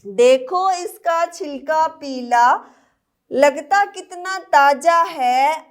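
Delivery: slow sing-song rhyme recital; poem recital. Acted. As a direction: recite the rhyme for little children. Teacher recites mango poem. (बच्चों के लिए लय में कविता पाठ)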